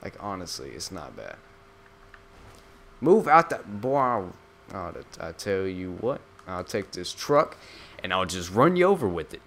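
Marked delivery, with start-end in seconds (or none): 3.0-9.4 mock tough guy. Gamer threatening a pedestrian, hammed-up loud tough guy. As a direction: play a goofy bully barking at someone.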